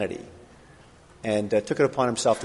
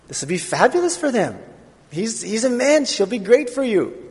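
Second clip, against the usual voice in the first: hammed-up Jewish mother, high and sing-song; a pleading Jewish mother's accent, rising high; 8 semitones higher than usual. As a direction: play the pushy Jewish mother, pitched up. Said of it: "I have a Jewish accent".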